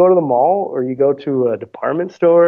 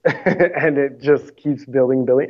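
laughing; slower than usual. Real, not acted. Laughing while describing the wait.

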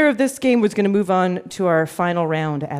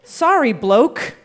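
trying out an Australian accent; tentative put-on Australian; slower than usual. Shown as a demonstration. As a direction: attempt a light Australian accent, as a test. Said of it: "How did I do with that, Laura?".

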